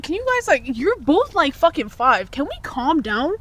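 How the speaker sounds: high-pitched, incredulous appeal; exasperated plea. Retold or imitated. Teen to two smitten little kids, exasperated.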